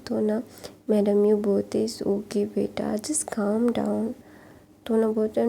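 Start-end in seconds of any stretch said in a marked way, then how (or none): 1.9-4.1 slow whispered comfort; mother calming her sulking son in a soft whisper; soothing mother. Retold or imitated. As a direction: hush the child gently, very slowly.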